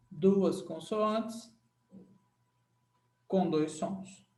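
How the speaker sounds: Duas consoantes said very slowly, as if writing it; slow dictation. Shown as a demonstration. Teacher dictating the summary rule, slow. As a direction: drawl it out for note-taking. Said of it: "Esse aqui é o segredo".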